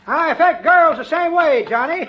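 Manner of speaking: laughing through his own joke; chuckling old-timer. Acted. Old man joking about girls, chuckling. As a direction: cackle along as an old codger.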